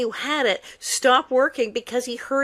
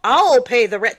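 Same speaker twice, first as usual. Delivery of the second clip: melodrama hero; 6 dB louder than usual. Retold or imitated. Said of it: "the melodrama sketch".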